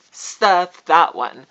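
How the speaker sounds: each word landed hard. Real, not acted. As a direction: stamp it down slowly. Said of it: "So stuff that one".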